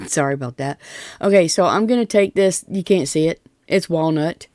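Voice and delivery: usual speaking voice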